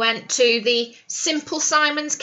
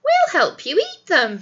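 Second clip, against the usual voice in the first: nastily; 5 semitones higher than usual. Acted. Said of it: "said Mister Wolf's neighbours nastily".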